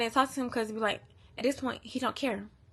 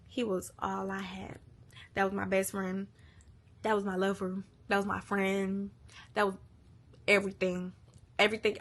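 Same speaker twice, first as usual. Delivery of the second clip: getting emotional. Real, not acted. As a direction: hold back real emotion between short phrases. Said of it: "I'm sorry, I'm getting emotional".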